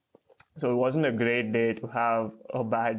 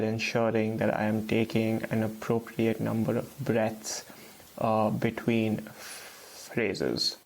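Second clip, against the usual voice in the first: slow, carefully enunciated phrases with breaths between; slow, enunciated speech. Shown as a demonstration. Speaker demonstrates their stuttering technique, slow and enunciated. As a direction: talk slowly, articulating properly. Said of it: "try to do it right now".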